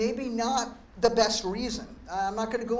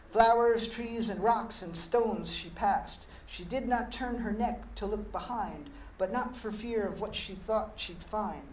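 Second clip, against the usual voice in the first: poem reading. Acted. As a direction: read the sonnet gently, straight-faced. Reads sonnet A Turtle.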